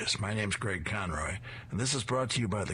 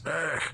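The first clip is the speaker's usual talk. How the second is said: sharp high ugh as the dog grabs him; startled grunt; 8 semitones higher than usual. Acted. Robber seized by police dog, startled grunt. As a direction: robber caught off guard.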